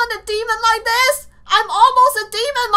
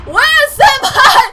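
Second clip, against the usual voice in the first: shouted; 4 semitones higher, 6 dB louder than usual. Pretend. Hunting Senpai in game.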